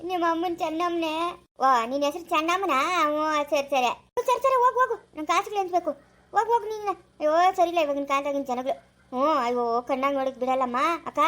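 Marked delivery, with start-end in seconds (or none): 4.3-6.9 raised voice telling someone to go away; shooing shout. Acted.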